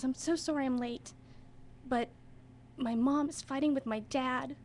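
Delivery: imitating an upset child, halting with pauses; struggling to express herself. Upset child explaining lateness to drama teacher, halting and emotional. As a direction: falter through an upset child's apology. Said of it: "she couldn't really express herself".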